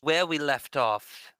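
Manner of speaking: lightly put-on character delivery; Alaxi. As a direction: recap begun in a slight character voice. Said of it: "doing the Alaxi's voice".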